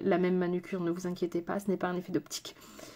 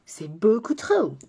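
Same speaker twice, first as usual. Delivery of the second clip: whisper; 4 dB louder, slower than usual. Real, not acted. Too much blue eyeshadow.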